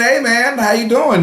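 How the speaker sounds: high, breezy greeting; lightly voiced nice guy saying hi; a hint of an overly friendly Canadian. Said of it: "he's a real Canadian".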